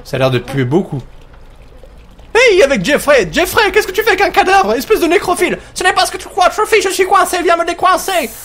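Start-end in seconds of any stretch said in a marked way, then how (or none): 2.3-8.3 voiced characters. Player giving the trapped game man a high put-on voice.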